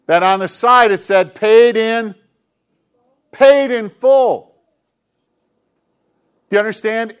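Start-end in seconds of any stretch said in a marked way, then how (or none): 1.3-4.5 higher, louder, very slow and drawn out; triumphant proclamation. Acted. Pastor proclaims the card to the kids, high, loud and slow. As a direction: let every word ring out like a verdict. Reading the card's side.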